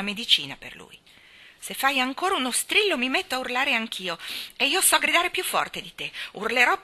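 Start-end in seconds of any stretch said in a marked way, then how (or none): 1.6-6.8 put-on higher, loud threatening girl; a furious small voice; furious little voice. A narrator's reading. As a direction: threaten to outshout him. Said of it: "vocetta furiosa".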